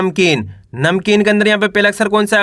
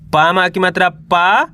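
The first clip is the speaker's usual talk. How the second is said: slow, syllable by syllable; teacher sounding out each letter; slow syllable reading; slower than usual. Shown as a demonstration. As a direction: spell it out slowly for a child. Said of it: "दो दो करके पढ़ना है".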